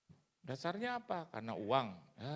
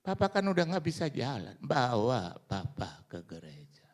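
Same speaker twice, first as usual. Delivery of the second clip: pleading call; 3 semitones higher, 10 dB louder than usual. Retold or imitated. Sick father pleading loudly.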